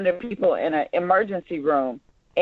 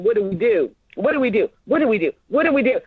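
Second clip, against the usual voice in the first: rising panic; much faster than usual. Pretend. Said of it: "you guys are coming outside saying".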